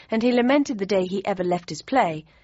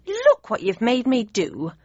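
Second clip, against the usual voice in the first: scolding; 3 semitones higher, slower than usual. Acted. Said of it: "she scolded".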